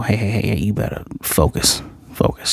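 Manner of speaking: soft, half-whispered self-reminder; quiet mutter to stay on track. Real, not acted. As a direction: hush and refocus yourself. Reminds himself to focus.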